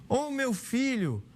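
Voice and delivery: a mild narrated scream, stretched out; a cry of alarm. A narrator's reading. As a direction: cry out in panic over a choking child. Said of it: "ouvi um grito".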